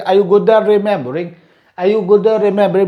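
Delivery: "at remembering" with the T turned into R; quick linked "at remembering", no T heard. Shown as a demonstration. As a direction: blend "at" straight into "remembering", T becoming R. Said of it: "ta is also pronounced as ra".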